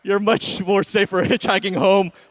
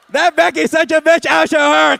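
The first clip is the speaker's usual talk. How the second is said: high, loud mock white-girl outburst; catty white girl; 6 semitones higher, 5 dB louder than usual. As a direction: play an indignant girl picking an online fight. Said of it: "that's how white people fight".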